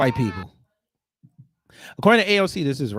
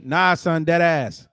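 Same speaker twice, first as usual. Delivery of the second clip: New Yorker voice; 3 dB louder, slower than usual. Retold or imitated. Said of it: "if this was a New Yorker".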